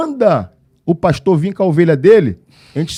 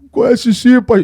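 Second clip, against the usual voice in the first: teary, breaking voice, higher; retold crying; 5 semitones higher, 4 dB louder than usual. Policeman tearfully admitting to the pastor, teary and choked. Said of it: "Ele já começou a chorar".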